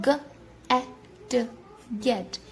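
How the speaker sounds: گیٹ broken into sounds, then blended; sounding out get. Shown as a demonstration. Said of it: "آپ نے note کیا کہ ان تینوں words میں". (گیٹ کو آواز بہ آواز بولنا)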